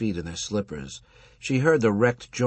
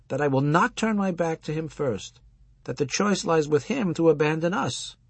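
raised, lecturing rabbi voice; old rabbi voice; 7 semitones higher than usual. Acted. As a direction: preach it like an aging rabbi. Husband rabbi voiced higher.

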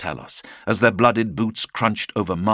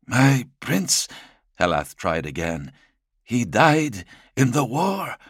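high, careful pleading tone; high servant voice; 6 semitones higher than usual. Acted. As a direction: lift it up, gently insistent. Helath tries again.

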